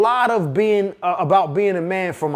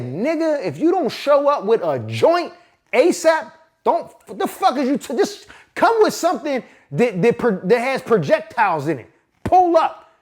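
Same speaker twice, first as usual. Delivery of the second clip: raised, urgent telling-off; heated phone demand; 5 semitones higher than usual. Retold or imitated. Friend on the phone, hyped demand to pull up. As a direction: bark orders down the phone at a friend.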